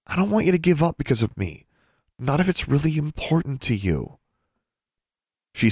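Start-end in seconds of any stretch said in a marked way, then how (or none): 0.1-4.2 much higher voice for the sister; earnest younger sister. Acted. Sister begs brother not to give up, earnest. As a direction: plead in a high, girlish voice.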